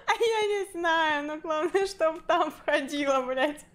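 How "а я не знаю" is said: giggling through words; laughing. Real, not acted. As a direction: laugh while answering. Laughing at her own drawing. (сквозь смех)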